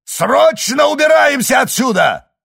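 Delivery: frantic shout at the crew; yelling. A narrator's reading. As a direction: bellow the order to flee. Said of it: "заорал он".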